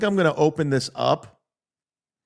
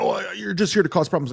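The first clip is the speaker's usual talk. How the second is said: mock flustered, higher-pitched stammer at the start; hammed-up fluster; 4 semitones higher than usual. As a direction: imitate a rattled man repeating his accusation. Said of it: "he gets all flustered".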